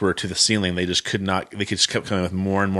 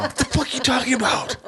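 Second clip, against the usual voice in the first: high, outraged disbelief; mock outraged shock. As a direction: blurt it out, shocked and indignant. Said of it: "I'm like".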